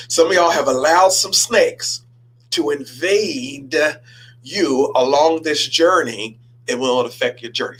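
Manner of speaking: slow, weighty preaching. Acted. Pastor warning the congregation, slow preaching. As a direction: lean into each word.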